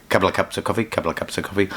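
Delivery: quick tongue-twister delivery; said really quick. Shown as a demonstration. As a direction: rattle it off fast as a tongue twister. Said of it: "Say that really quick".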